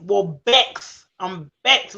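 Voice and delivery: vexed said as "bexed", Jamaican style. Shown as a demonstration. Explaining Jamaican slang, vexed said "bexed". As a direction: put the B in vexed. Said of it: "we put the B in it".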